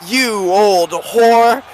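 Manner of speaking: very slow, drawn-out snarl in a put-on voice; outraged insult. Brawling man hitting back at the older woman, outraged. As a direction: spit each word out slowly with contempt. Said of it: "And he goes".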